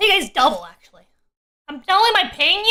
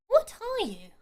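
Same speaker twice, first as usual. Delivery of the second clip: usual speaking voice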